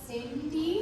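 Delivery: Cindy, not Sydney, corrected with a light rise; name said clearly. Shown as a demonstration. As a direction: say Cindy carefully, rising at the end. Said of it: "not Sydney".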